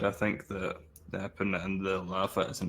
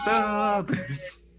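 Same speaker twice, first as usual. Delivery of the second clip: loud high Chicago sports fan; Chicago accent; 12 semitones higher, 5 dB louder than usual. Pretend. Chicago Da Bears bit.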